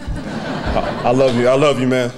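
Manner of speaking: loving, laughing out the words to his brother; laughing through emotion. Real, not acted. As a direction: say it with a choked laugh of love.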